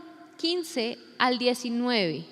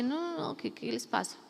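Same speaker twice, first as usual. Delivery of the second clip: Colombian Jesus; 9 dB quieter than usual. Acted. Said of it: "un Jesús muy colombiano".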